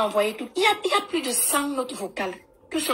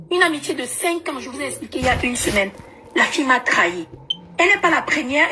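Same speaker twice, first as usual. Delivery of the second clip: louder and more forceful the second time; louder, emphatic retelling; 5 dB louder than usual. Real, not acted. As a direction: press it harder, raised voice. Repeats the same complaint, more forcefully.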